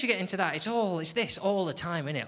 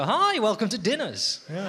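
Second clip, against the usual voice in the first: TV cookery host; 5 semitones higher, 3 dB louder than usual. Pretend. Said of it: "you just go".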